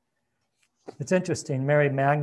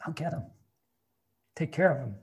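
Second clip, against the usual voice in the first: much softer, hushed repeat; soft echo of her plea; 6 dB quieter than usual. A narrator's reading. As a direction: say it quietly, as if moved. Repeats Mary's plea, moved.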